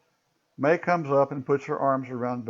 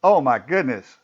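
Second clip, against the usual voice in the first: officer yells "Oh, my goodness!" louder at the coffin; 5 dB louder than usual. Acted. Officer peering into the coffin yells "Oh, my goodness!" in shock.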